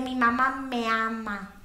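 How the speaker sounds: slow, drawn-out refrain; measured, lingering syllables; primer recitation. Acted. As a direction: recite it slowly like a rote school phrase. Primer refrain closes the boast.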